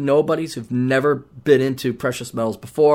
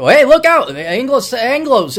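mock Brit; 8 semitones higher, 5 dB louder, slower than usual. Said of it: "you go away".

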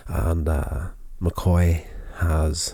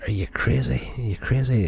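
mock disbelief; 5 semitones higher than usual. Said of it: "he's like".

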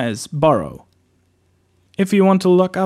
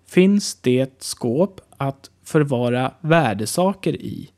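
slow repeat. Shown as a demonstration. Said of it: "To sound a bit more native and skilled".

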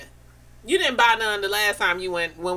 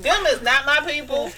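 higher-pitched Caribbean island accent; 5 semitones higher than usual. Shown as a demonstration. Showing friends the accent she catches abroad, island accent. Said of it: "when I catch the accent".

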